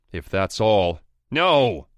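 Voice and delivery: high, loud panicked shout; desperate yell. Acted. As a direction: cut him off before he hangs up. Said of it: "He yells".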